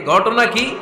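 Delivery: mock-indignant husband demanding answers; angry husband. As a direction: play a husband flaring up. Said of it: "আপনি রেগে মেগে".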